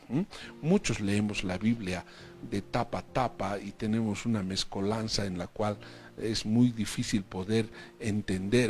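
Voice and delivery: usual speaking voice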